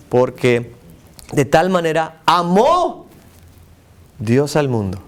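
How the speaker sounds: "amó" stretched slow and lifted; stress on AMÓ. Shown as a demonstration. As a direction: linger on "amó". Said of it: "voy a enfatizar la siguiente palabra". (énfasis alargado en "amó")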